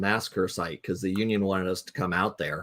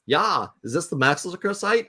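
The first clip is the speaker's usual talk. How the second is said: higher-pitched imitation of a Norwegian accent; 7 semitones higher than usual. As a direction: lilt it upward like a Norwegian tourist asking. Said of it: "I gotta do the accent".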